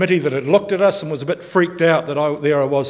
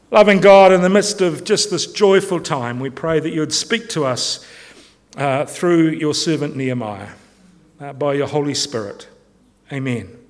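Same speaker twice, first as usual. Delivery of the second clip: leading prayer; 3 semitones lower than usual. Real, not acted. Leads a prayer.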